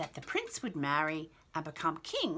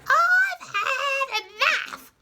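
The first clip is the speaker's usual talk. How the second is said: high, loud, slow exasperated queen; old lady voice; 11 dB louder, much slower than usual. Acted. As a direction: drag it out like a fed-up old queen. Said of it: "the old lady voice".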